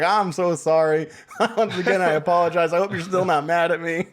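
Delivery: giggling while imitating a grovelling apology; mock sorry, breaking into laughter on every line; laughing through a mock apology.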